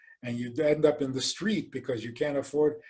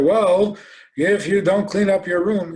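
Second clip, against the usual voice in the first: parent's threat; 6 semitones higher, 7 dB louder than usual. Retold or imitated.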